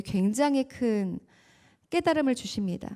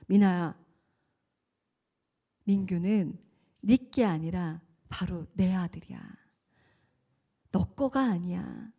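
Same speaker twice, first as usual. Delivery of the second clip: voice of God; 4 semitones lower, slower than usual. Retold or imitated. God speaking to her in prayer.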